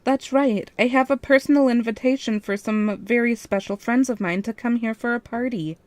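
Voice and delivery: sweet voice. Acted. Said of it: "I asked in a sweet voice".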